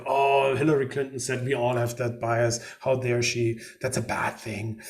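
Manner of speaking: a hint of a pompous, outraged big-shot; Donald Trump impression. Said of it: "I can't do his, uh, accent very".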